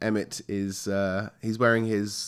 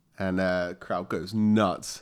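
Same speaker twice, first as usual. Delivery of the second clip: ordinary talk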